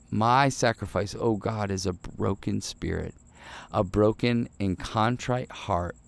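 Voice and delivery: slow, measured reading of a psalm; scripture reading. Acted. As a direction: read the verses slowly and reverently. Reads Psalm 51 aloud.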